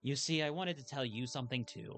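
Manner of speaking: a hint of an apologetic Nan; tender, understated grandmotherly confession; lightly voiced grandmother. Nan apologizing for overlooking her granddaughter, gently sincere. Game dialogue read in character.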